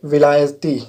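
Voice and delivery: विलायती said as vi-la-ya-ti, with a short a and no long aa; correct pronunciation. Shown as a demonstration. Teacher correcting the misprinted word for students. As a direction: say विलायती cleanly without the long aa sound. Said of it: "आ की मात्रा नहीं है".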